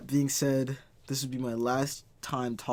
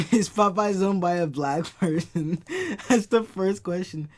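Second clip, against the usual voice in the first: loud, raised-pitch excitement; amazed outburst; 5 semitones higher, 7 dB louder than usual. Real, not acted. Checking on Popeyes for a friend, excited outburst. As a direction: burst out with a thrilling find. Finds Popeyes in Germany, astonished.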